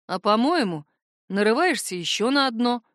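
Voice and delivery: usual speaking voice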